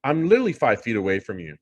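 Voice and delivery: lightly voiced teen girl, mildly sarcastic; a hint of an eye-rolling teenager; mild mock teen sass; sarcastic teenage girl. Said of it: "in a teenage girl's voice, sarcastic".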